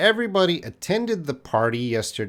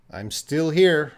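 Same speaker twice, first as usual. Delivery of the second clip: higher, louder answer with STILL emphasized; example answer stressing still; 4 semitones higher, 5 dB louder than usual. Acted. Student answering whether they went home, stressing STILL. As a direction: answer firmly, lifting "still". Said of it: "you're gonna answer".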